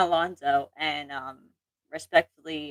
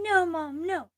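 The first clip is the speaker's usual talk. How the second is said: put-on child yelling; 12 semitones higher, slower than usual. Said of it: "she'll start yelling".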